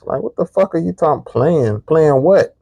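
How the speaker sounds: can't believe what he's hearing; incredulous. Real, not acted. Incredulous at her accusation.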